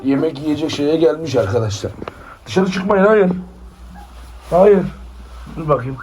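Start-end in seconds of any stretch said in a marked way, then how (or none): 2.5-4.8 firm no. Real, not acted. Scolding puppies leaving the pen.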